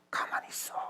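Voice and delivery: hushed, breathy order; soft, voiceless hush; whispered command. Acted. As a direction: whisper it to still them. Acts God hushing the people.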